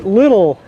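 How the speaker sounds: "Lidl" said like "little"; "Lidl" with a short i; short-i store name. Shown as a demonstration. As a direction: say "Lidl" to rhyme with "fiddle". Offers store name in variants.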